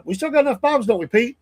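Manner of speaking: high, mock-gruff imitation of the president; a hint of a peeved leader; mock angry president. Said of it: "I could just see him sitting there getting mad, going".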